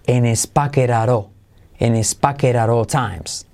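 "pocket at all" joined as "paqueraró"; linked soft R. Shown as a demonstration. Teacher cautioning on this phrase, "pocket at all" linked with taps. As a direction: tap through "pocket at all" without breaks. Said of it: "Cuidado con esta frase".

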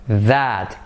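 "that" said with a voiced th; key sound "that". Shown as a demonstration. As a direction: stress the th of "that". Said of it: "no es is, sino es".

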